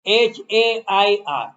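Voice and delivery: slow letter-by-letter spelling. Shown as a demonstration. Teacher telling students hair takes no S, slow spelling. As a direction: spell it slowly, each letter separate.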